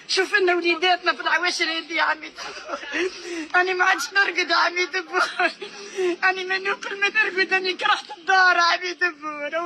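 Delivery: بكاء وغضب; sobbing, pleading plea; angry crying. Real, not acted. Mother begs president for sons. (بكاء وتوسل)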